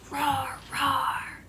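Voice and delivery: whispered roar. Shown as a demonstration. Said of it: "They go".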